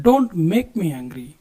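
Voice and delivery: very slow and deliberate; slow model phrase. Shown as a demonstration. Teacher modelling the English warning for students, slowly. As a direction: give it slowly so learners can follow. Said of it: "ನನಗೆ ಸಿಟ್ಟು ತರಿಸ್ಬೇಡ".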